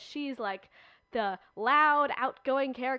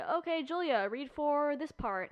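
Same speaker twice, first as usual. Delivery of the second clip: higher, slow director's request; lightly voiced director, slow and higher; casting director; 5 semitones higher than usual. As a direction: call out the part like a casting director. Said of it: "and they say".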